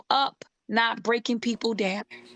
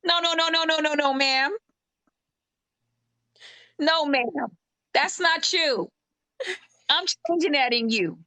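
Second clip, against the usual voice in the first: God correcting; 5 semitones higher than usual. Retold or imitated. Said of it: "and then God says".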